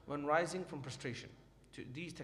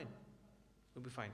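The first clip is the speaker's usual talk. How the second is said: softer and slow, trailing into near hush; soft slow repeat; 4 semitones lower, 13 dB quieter, much slower than usual. Shown as a demonstration. Teacher reassuring students their prayer is fine, softer and slow. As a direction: let it settle gently, slowly and softly.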